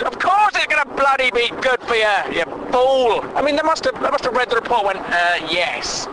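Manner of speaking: rising, incredulous rant at the report; exasperated rant. Real, not acted. Comic host ranting at a pointless cancer report, exasperated. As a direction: scoff at a report stating the obvious.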